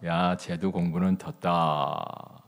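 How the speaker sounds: slow, drawn-out grandfatherly pronouncement; grandfather's verdict. Retold or imitated. Grandfather judges his playing grandson, slow resigned verdict. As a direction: imitate a grandfather giving up on the child. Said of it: "할아버지가".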